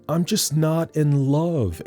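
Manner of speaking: a hint of a lovesick Amy; lightly voiced wistful girl. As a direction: sigh it like a dreamy teen. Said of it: "Amy says".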